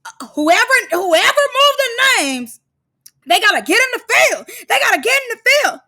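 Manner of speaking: hammed-up tough-talk imitation; imitating Lex. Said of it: "the way she was like".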